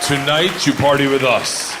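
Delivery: put-on loud, emphatic Russian accent; Russian cop. Cop invites the student, loud Russian accent. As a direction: announce it firmly as a Russian cop. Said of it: "and he goes".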